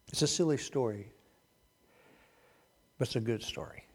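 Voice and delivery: a soft unvoiced whisper. Real, not acted. Preacher hushing the congregation before a story, whispered. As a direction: lean in and whisper it.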